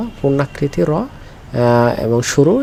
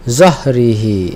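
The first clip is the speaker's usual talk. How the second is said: slow recitation; much slower than usual. Shown as a demonstration. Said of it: "এই যে একটা র।".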